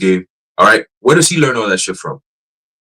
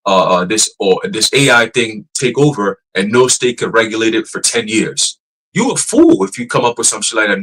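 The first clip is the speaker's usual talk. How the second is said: ordinary delivery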